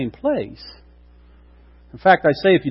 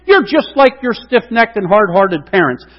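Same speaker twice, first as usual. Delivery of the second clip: loud, high, furious rebuke of the rebels; angry rebuke; 5 semitones higher, 4 dB louder than usual. Acted. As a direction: thunder at the grumbling crowd. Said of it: "he had a bad attitude".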